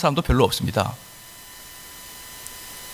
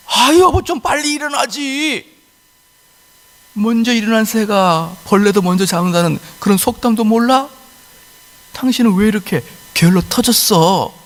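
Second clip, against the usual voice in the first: nagging wife; 5 semitones higher than usual. Pretend. Bird wife to her husband: high nagging scold.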